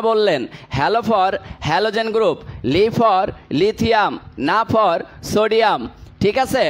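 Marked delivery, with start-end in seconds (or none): 0.7-5.9 each mnemonic stretched out very slowly; slow memory drill. Shown as a demonstration. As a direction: drawl every line so students can memorise it. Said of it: "আমি আবারও একটু repeat করতেছি". (খুব ধীরে টেনে টেনে মুখস্থ করানো)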